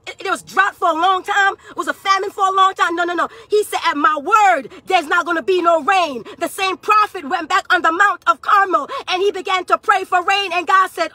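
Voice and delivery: fervent church sermon delivery; preaching. Real, not acted. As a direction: preach it with driving urgency. Preaches at full force.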